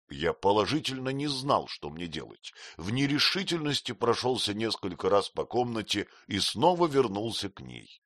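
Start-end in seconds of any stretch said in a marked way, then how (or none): none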